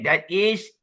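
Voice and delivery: "is" lifted high; pointed emphasis on "is"; emphatic stress on IS. Shown as a demonstration. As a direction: raise and lean on "is" in "That is". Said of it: "being emphasized".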